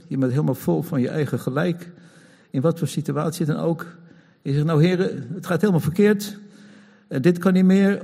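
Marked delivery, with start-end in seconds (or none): 4.7-8.0 mock complaining prayer.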